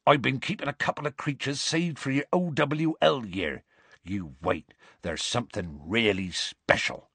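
mildly eager, proud gamekeeper; enthusiastic gamekeeper. Acted. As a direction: share a secret treat. Voices Hagrid.

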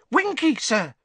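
high, eager elf voice; a little house elf squeaking out a name; squeaky house elf. A narrator's reading. House elf Dobby introducing Winky, high and squeaky.

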